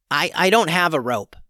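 put-on talking chicken asking the boy; chicken's voice. A narrator's reading. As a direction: call down into the well.

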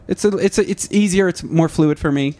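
light, fluid put-on Irish accent. Shown as a demonstration. Comedian showing her co-host she can do it, Irish accent. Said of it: "I can do an Irish accent well".

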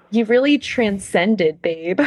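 a hint of laid-back surfer, drawn out; slow, lightly voiced surfer praise; seventies surfer. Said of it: "like, a surfer from the seventies".

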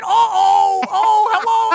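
high, loud put-on demon voice; a demon's mock-cheery hello; demon greeting. Demon boss mock-cheerfully greeting the party.

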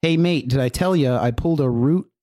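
put-on Aussie accent; playful Australian mate-to-mate voice. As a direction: read it as a mock Australian. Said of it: "in your best Australian accent".

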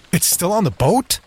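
high, alarmed squeak; squeaky nervous scientist. A narrator's reading. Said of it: "His voice was high and squeaky".

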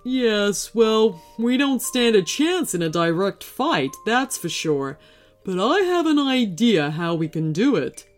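horse character's encouraging reassurance; lightly voiced horse, mildly encouraging. A narrator's reading. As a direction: encourage a daunted friend in character. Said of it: "Elmo said encouragingly".

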